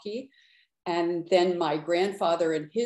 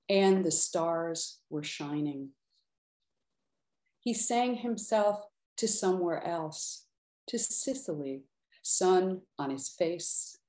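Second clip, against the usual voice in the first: measured, unhurried poetry reading; poem reading. Acted. Poet reading her poem for Paolo to an audience, measured. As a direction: linger on the images with pauses.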